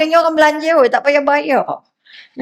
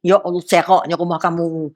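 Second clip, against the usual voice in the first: snide mock praise; 7 semitones lower than usual. Shown as a demonstration. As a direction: praise the house with a sly dig. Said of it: "Itu bukan, itu keji". (pujian sinis yang perlahan dan merendah)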